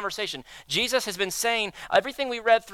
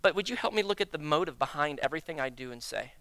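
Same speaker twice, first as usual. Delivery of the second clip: earnest prayer. Retold or imitated. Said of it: "posture yourself with God and say".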